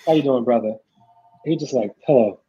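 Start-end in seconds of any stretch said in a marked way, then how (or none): 0.0-0.8 low-pitched, lightly imitated cool guy; a hint of a suave man's hello; smooth greeting. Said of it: "he was so smooth". 2.0-2.4 low, cool one-word greeting; imitating a very smooth man, low; smooth hello. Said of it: "he was so smooth".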